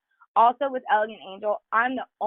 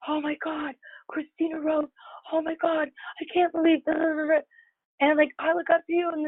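lightly mimicked starstruck gush, pitched higher; gushing fan; 6 semitones higher than usual. New girls meeting Christina Rose, a light mock fan gush. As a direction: playfully imitate a fan gushing over meeting you. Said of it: "they'll be like".

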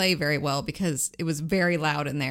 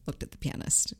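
mock whisper; 8 dB quieter than usual. Joking confession to his partner.

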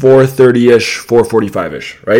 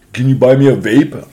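lightly mocked pleading voice; whiny guy imitation. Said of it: "that's what his voice sounded like".

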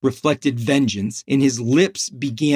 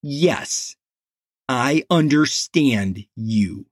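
snarl; slower than usual. Acted. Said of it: "Morales snarled".

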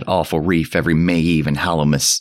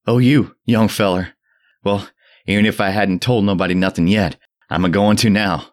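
put-on mad frenzied old man; 5 semitones higher than usual. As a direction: rave at the boy in frenzy. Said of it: "the mad frenzy of his voice".

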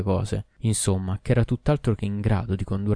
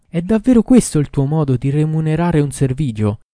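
loud, high reproachful shout; 7 semitones higher, 8 dB louder than usual. A narrator's reading. Doctor shouting his reproach at the king, loud high shout. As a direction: hurl the accusation at him. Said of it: "gridò".

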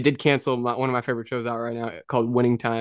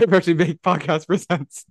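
announcer voice; 6 semitones higher, 4 dB louder, slower than usual. Pretend. Mock show title announcement.

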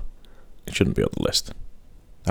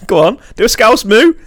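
laughing; 12 semitones higher, 3 dB louder than usual. Real, not acted. Still laughing, asking for moo.

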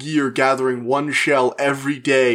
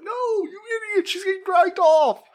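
angry shout. Retold or imitated. Frustrated hero yells at confused driver.

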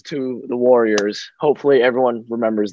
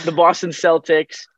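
light Boston accent; 4 semitones higher than usual. Shown as a demonstration. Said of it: "You gotta say it with the accent".

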